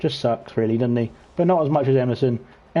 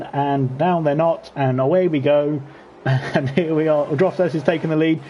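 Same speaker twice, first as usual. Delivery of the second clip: lively play-by-play, pitched up as the race starts; live race commentary; 3 semitones higher than usual. Acted. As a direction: call the race like a sim racing caster.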